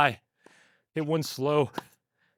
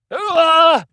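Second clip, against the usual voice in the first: high, loud effort cry; loud effort cry mid-rally; straining yell; 12 semitones higher, 10 dB louder than usual. Real, not acted. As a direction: let out a strained cry reaching for the ball. Straining hard to reach a shot.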